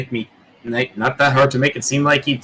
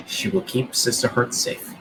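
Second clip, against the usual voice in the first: quiet solemn vow; 5 dB quieter than usual. Acted. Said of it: "from Rick and Morty, keep Summer safe".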